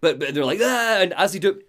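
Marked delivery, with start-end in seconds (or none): 0.6-1.0 short, high mock scream; brief loud yelp as if screaming; imitated scream. TV screens screaming at the player, imitated scream. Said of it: "they're screaming at you".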